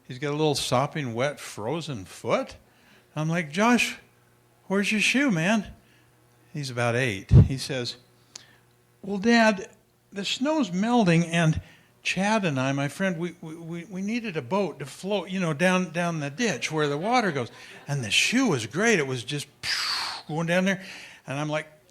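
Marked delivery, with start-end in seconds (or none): 3.5-5.6 higher, surprised dad asking his son; dad quizzing his son about the shoe; puzzled dad. Retold or imitated. Parent questioning son in story. 9.0-21.9 put-on higher, innocent kid voice explaining; little boy. Eight-year-old son voiced in story.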